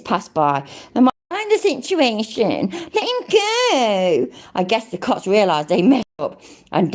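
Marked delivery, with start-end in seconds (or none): 2.7-4.3 slow mock cop voice. Quoting the cop.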